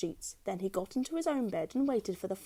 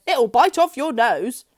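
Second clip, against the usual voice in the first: slow, louder, spooky; menacing husband; 4 semitones higher, 12 dB louder, slower than usual. A narrator's reading. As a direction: drag it out to frighten her. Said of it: "Missus Twit said".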